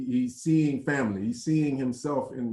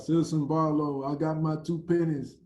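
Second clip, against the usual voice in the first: mildly hammed-up proud shout; proud yell; 4 semitones higher than usual. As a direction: announce yourself proudly. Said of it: "he proudly yells out".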